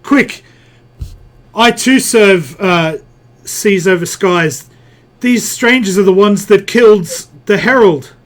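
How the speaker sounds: a hint of urgent villain. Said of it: "she says".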